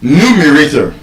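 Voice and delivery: Numerator stressed on the first syllable, NU; rule's stress. Shown as a demonstration. Teacher adds an example of the rule, first-syllable stress. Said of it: "stressed on the fourth to the last syllable".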